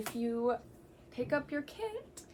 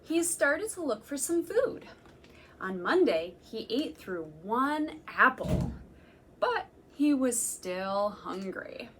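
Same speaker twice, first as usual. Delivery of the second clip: slow, emphatic storytime reading; reading to children; 4 dB louder than usual. Acted. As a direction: savour each food for the little listeners. Reading picture book to children.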